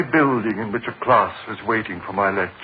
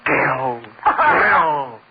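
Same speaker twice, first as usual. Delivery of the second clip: crazed sobbing; 3 semitones higher, much slower than usual. Acted. Strangling her.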